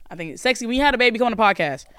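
usual speaking voice

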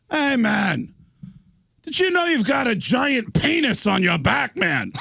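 high-pitched mock shout of alarm. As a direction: holler it in high-pitched disbelief. Acting the singer confronting drummer.

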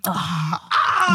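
low-pitched ad-lib "ah"; imitated male "ah". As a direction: demonstrate a man's low "ah". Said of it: "That, ah, you see".

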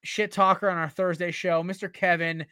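loud, drawn-out hype announcement; hype shout-out. Real, not acted. Birthday shout-out to co-host.

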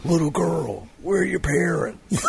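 Rick Grimes shouting. Retold or imitated. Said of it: "Ask the little girl where her parents are".

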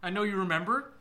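gloating. Acted. Killer gloats over captive.

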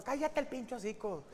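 put-on slow high gruff dad snapping at kid; dad barking at the kid to shut up; mock angry father. Father in the car shouting at his child, mock angry.

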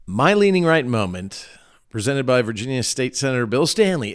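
announcer-style sponsor mention; sponsor read. Acted. Host reads his sponsor mention on the show, announcer style. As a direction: read the ad like a radio spot.

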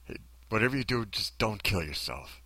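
quietly earnest plea, easing off at the end; sincere version. Shown as a demonstration. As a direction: say it gently, as if it were caring advice. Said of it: "I said it like this".

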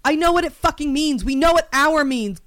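exasperated, emphatic retort; indignant comeback; rage fantasy. Pretend. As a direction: snap back at being talked down to. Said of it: "here is the rage fantasy sequence".

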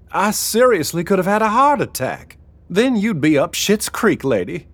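huffy, still rattled; Sparky's voice. A narrator's reading.

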